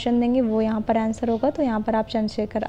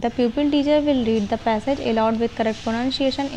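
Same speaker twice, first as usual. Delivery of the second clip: slow dictation; much slower than usual. Shown as a demonstration. Dictates lesson plan text.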